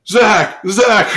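high, loud fan cheer for a player; mock crowd calling. Everyone in a blowout calling for the benchwarmer, playful shouting. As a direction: yell it out like an excited fan.

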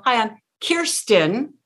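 slow smiling "Kirsten", rising tune; with a smile. Shown as a demonstration. Coach modelling student's greeting, slow and with a smile. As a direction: smile and lift each "Kirsten". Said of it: "with a smile".

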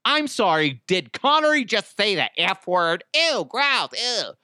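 hammed-up disgusted squeal; shocked listener. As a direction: play the prudish listener. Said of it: "People are like".

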